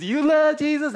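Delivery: high, loud, disbelieving question; incredulous challenge. Real, not acted. Preacher challenging a so-called Christian, incredulous.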